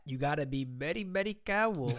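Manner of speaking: mock Asian accent. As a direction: imitate a broadcaster's joking Asian accent. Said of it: "an Asian accent".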